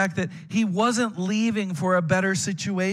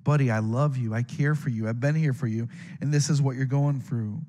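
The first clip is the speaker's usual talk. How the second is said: God; 5 semitones lower than usual. Acted. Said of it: "Imagine what God's going through here saying".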